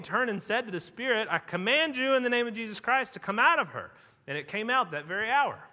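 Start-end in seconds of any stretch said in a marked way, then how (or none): 1.3-3.9 higher, mildly exasperated retold command; greatly annoyed command. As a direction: order it out, with a touch of annoyance. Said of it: "become greatly annoyed".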